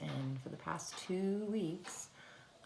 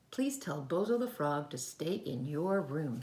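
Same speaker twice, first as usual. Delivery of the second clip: firm mother; 5 dB louder than usual. Acted. Mother firmly instructing child.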